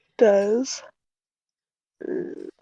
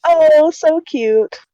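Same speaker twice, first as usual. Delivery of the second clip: cooing; 6 semitones higher, much slower than usual. Real, not acted. Player coos at icons.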